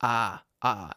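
a drawn open "ah, ah"; ah sound. Shown as a demonstration. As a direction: sound out the Boston "ah". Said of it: "It's the ah sound".

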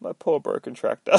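feeble, put-on old man's lament; mock-pitiful old man. Old dude looking at his wrecked tractor, mock pitiful. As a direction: whimper lightly over your loss.

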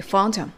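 "You found him" with no H in "him"; "him" weakened to "um", linked onto "found"; dropped H. Shown as a demonstration. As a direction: join "found him" as "foun-dum". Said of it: "himのHが脱落して".

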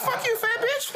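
high, loud insult with a laugh in it; angry yell. Retold or imitated. Hurling an insult at the woman in the bar, loud laughing yell. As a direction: spit the insult out loud, cracking up.

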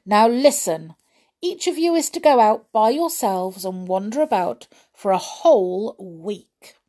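put-on lively read-aloud for children; animated children's story reading; storybook narration. A narrator's reading. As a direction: tell it like a bedtime story to little ones.

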